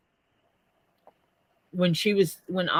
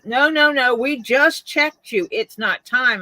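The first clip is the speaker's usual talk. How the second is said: dismissive nurses; 5 semitones higher, 3 dB louder than usual. Retold or imitated.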